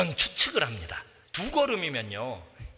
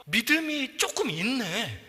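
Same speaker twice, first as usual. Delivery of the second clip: pleased tender tone; 5 semitones higher, slower than usual. Shown as a demonstration. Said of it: "감정이 반영된 말이에요".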